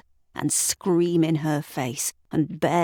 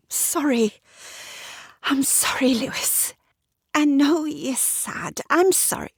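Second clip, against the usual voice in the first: Sarah voiced higher, apologetic; contrite wife; 10 semitones higher than usual. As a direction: say sorry gently but tense.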